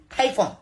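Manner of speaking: Payphone said PAY-fon, long A; trying a pronunciation. Shown as a demonstration. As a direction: say Payphone with the vowel of day. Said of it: "However I'm to pronounce this".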